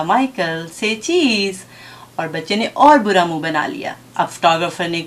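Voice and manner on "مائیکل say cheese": lightly voiced tender mother, gently coaxing; affectionate coaxing. Mother coaxes her child to pose, affectionately. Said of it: "ماں نے بڑے پیار سے کہا".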